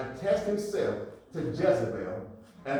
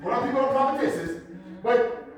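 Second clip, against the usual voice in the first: raised, punchy sermon delivery; forceful preaching; 10 semitones higher, 8 dB louder than usual. Acted. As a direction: preach it out to the congregation.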